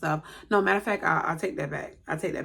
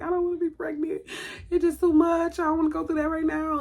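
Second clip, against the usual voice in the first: retold sobbing; 11 semitones higher than usual. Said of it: "and I am sobbing".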